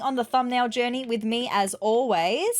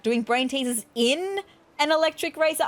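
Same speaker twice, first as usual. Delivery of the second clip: mildly baffled question, pitched higher; puzzled echo; 4 semitones higher than usual. Acted. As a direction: query the odd phrase in disbelief. Puzzled echo of the odd line.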